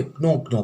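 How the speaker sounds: "ક્નો" with the k sounded before the n; students' misreading. Retold or imitated. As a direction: voice the silent k in "ક્નો". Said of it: "ઘણા વિદ્યાર્થી જ્યારે વાંચે".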